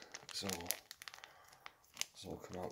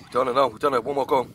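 excited relief; 5 semitones higher, 11 dB louder than usual. Real, not acted. Finishing spicy challenge, relieved.

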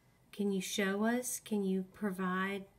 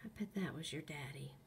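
talking to a ghost; 3 semitones lower, 8 dB quieter, faster than usual. Real, not acted. Whispering to a ghost.

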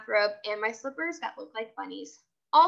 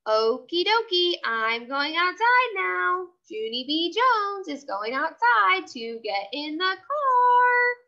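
shouting louder; 5 semitones higher, slower than usual. Acted. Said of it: "I shouted louder".

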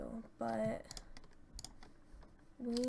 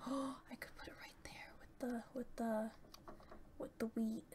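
excited whisper; 6 dB quieter than usual. Real, not acted. Planning in a whisper.

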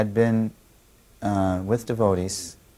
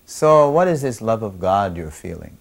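louder, pointed challenge; young man challenging the guru, louder; 6 dB louder than usual. Retold or imitated. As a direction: put him on the spot. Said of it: "in a challenging mood".

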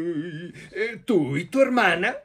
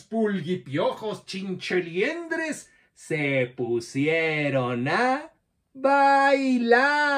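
put-on lively storyteller voice for children, with playful questions; reading to children. Storyteller telling children a monster tale, lively and playful. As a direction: tell it like a children's storyteller, drawing kids in.

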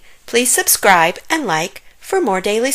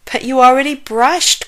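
higher, louder motherly protest; exasperated cry; 6 semitones higher, 5 dB louder than usual. A narrator's reading. Mom objects as Zack wants a banana, exasperated cry. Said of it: "cried Mom".

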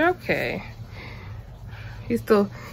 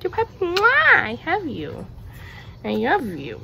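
pet-talk coo; 8 semitones higher than usual. Real, not acted. Owner coos at her dog in his costume, high and doting. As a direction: gush over the dog, then kiss him.

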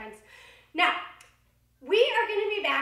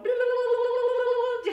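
higher silly babble; silly blah blah; 6 semitones higher than usual. Shown as a demonstration. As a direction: babble like a goofy frog. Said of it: "go blah".

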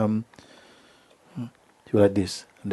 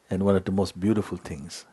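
normal talking voice

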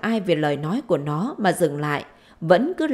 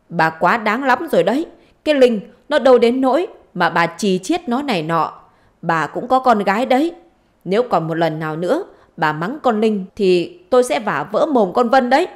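acted stern threat, somewhat raised voice; angry warning; 3 semitones higher, 4 dB louder than usual. Husband defending his daughter against his wife, angry warning. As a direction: warn her with mounting annoyance.

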